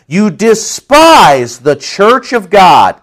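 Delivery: slow, weighty accusation; no punches pulled. Acted. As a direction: press the charge home word by word. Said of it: "not pulling back any punches at all".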